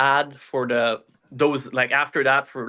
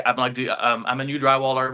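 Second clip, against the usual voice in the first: put-on French accent. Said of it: "with a super thick Fran-, French accent".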